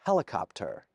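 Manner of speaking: put-on "Helicopter" in a clumsy American accent with a hard final R; a British speaker's atrocious American "Helicopter"; hammed-up American accent on "Helicopter"; bad American accent. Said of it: "my atrocious attempt at an American accent".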